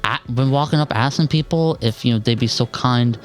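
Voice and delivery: lightly voiced slurring drunk; a hint of a drunk begging for money; town drunk. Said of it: "is slurring his words".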